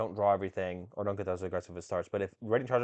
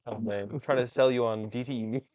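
car salesman. Acted. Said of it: "sounds like a car salesman".

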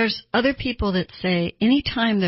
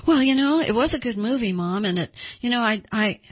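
squirm out of the answer; dodging teenager; 4 semitones higher than usual. Retold or imitated. A teenager evading Mom's question, flustered and stalling. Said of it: "they're dodging the question".

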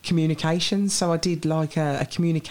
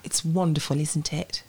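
softened RP, trailing off softer; lightly posh-English RP demonstration; RP accent; 3 dB quieter than usual. Shown as a demonstration. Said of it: "can you do R P?".

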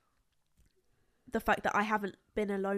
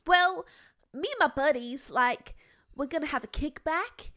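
lightly voiced sorority girl; a hint of a bubbly party girl; 3 semitones higher than usual. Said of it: "I'm gonna be the girl".

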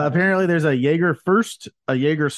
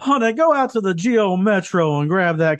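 hammed-up southern husband; 5 semitones higher than usual. Friends joking about cheap liquor, backwoods husband yelling. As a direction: play a backwoods husband hollering for his wife.

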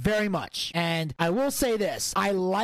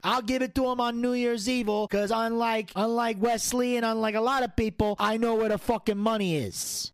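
lightly voiced mob boss wrestler; cocky mobster cutting a promo, lightly played; the Don; 2 semitones higher than usual. The Don answers the host about his title shot, cocky mobster.

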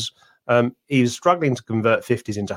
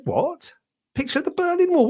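retold disbelief. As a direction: pitch jumps far higher in mock astonishment. Retelling his disbelief at the picture.

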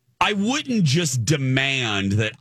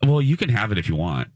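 lower-pitched, put-on pitiful reluctance; mock sad panda; 5 semitones lower, faster than usual. Wife offers husband the seat, playing sad panda. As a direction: offer it sadly, hoping to be refused. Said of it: "I would say it real, real sad, Panda".

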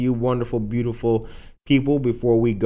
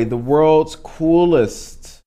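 drawn-out announcer; much slower than usual. Shown as a demonstration.

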